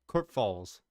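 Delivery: "Kerp Falls" said smoothly in one go with a mock German accent; a quick stab at German, "Kerp Falls" as one phrase; attempted German accent. Shown as a demonstration. Streamer retries the German town name with a shaky German accent. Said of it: "I don't really have my German accent down".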